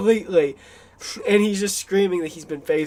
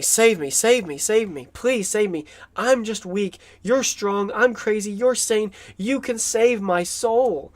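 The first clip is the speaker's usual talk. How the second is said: raised, lightly acted plea; retold begging, a touch urgent; mild pleading; 5 semitones higher than usual. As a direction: imitate someone begging to be saved. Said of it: "is begging for his soul".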